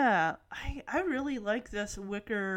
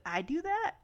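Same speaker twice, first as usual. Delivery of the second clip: surprised; 6 semitones higher than usual. Retold or imitated. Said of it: "I like how she's surprised".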